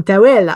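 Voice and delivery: "towel" turned French, ta-WELL; French-sounding towel. Retold or imitated. Mother echoing her daughter's word, "towel" pronounced the French way. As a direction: say "towel" with French vowels, stressed at the end. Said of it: "pronounce it differently to be French".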